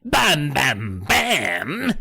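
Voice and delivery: put-on high dramatic sting in London accent; gentleman's London accent. Sting in the gentleman's language, comic London accent. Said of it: "in the language of our gentleman".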